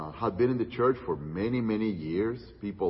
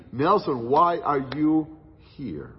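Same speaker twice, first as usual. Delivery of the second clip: louder, slowed question with a drop on "here"; the preacher calls out "Nelson, why are you here?" louder, then drops on "here"; pressing the question home, louder; emphatic; 4 semitones higher, 4 dB louder, slower than usual. Retold or imitated. Climax, God's question recalled.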